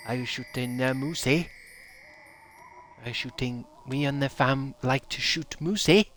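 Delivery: hammed-up Canadian with a rising "eh?"; bad Canadian accent. Shown as a demonstration. Streamer testing moose-hunting lines for chat, bad Canadian accent. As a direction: keep trying a shaky-footed fake Canadian accent. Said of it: "I can't do Canadian accent".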